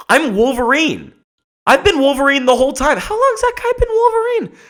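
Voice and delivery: over-the-top falsetto hype; hammed-up movie reveal. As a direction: play the big twist reveal.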